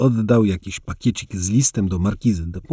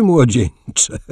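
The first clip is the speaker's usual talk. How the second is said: louder młodzieńcze, falling at the end; młodzieńcze said louder and amused, falling at the end; louder young man; 4 semitones higher, 4 dB louder than usual. A narrator's reading. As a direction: call out młodzieńcze with a falling close. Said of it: "Voltaire bawił się szczerze".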